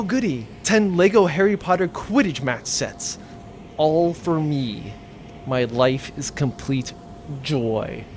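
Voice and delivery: slow, low, flat mock joy; sarcastic accountant faking delight; deadpan sarcasm. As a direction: drag it out with dry irony. Sarcastic reaction to worthless Legos.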